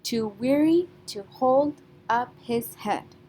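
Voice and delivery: slow, three marked beats on weary, hold, head; stressed beats. Shown as a demonstration. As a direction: stretch the line and lean on weary, hold and head. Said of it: "that gives us our three beats".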